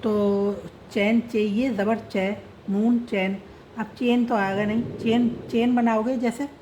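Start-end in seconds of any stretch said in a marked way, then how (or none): 0.9-3.4 slow letter-by-letter spelling of चैन; spelled out. Shown as a demonstration. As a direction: spell चे, ये, ज़बर, नून then join into चैन. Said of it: "तो उच्चारण यहाँ बदलता है".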